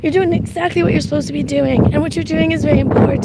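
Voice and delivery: heartfelt reassurance; emotional, sincere encouragement; getting emotional. Real, not acted. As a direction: insist earnestly, moved by your listeners. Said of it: "I'm getting emotional".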